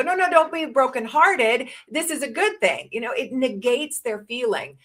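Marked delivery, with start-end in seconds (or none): 0.0-2.9 dismissive comfort. Retold or imitated. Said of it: "And I go".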